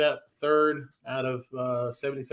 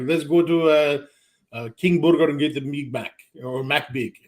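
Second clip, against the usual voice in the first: lightly put-on Iranian accent, a bit louder; Iranian dad impression; 4 dB louder than usual. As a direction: imitate a bumbling Iranian father's accent. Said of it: "he's like this Iranian Mister Magoo".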